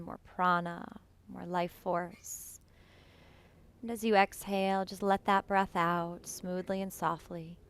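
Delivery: calm, unhurried meditation voice with long pauses; guided meditation. Real, not acted. Yoga teacher settling students into breath awareness, guided meditation. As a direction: guide them gently into the breath, leaving space between phrases.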